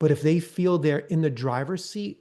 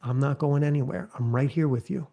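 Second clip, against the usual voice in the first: encouraging. Shown as a demonstration. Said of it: "and then you encourage".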